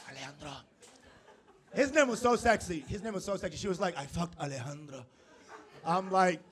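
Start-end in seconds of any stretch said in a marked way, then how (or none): 0.1-0.5 very soft, low murmur; hushed sultry name. Retold or imitated. Savoring the sexy name. 4.0-5.0 imitating her in a soft, low murmur; sultry confession.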